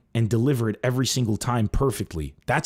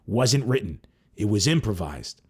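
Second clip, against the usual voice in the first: ordinary talk, nothing marked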